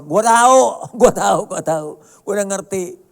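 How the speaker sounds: irritated mourner. Acted. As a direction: cut off the preachy comforter. Mourner snaps at platitudes.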